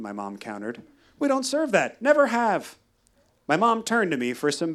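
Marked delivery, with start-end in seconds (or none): 1.2-2.8 curt barista. Retold or imitated. Barista firmly refusing.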